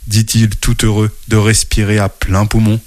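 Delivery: lively storybook narration with character voices; reading to children. A narrator's reading. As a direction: tell it like a bedtime story to kids. (lecture d'histoire pour enfants)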